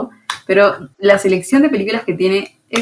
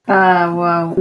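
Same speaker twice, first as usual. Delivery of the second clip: usual speaking voice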